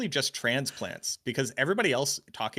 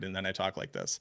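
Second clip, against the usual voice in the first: lapse into Boston speech, softer and lower; low Bostonian aside; Boston accent; 4 semitones lower, 6 dB quieter than usual. Shown as a demonstration. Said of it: "Hey, say a Boston word".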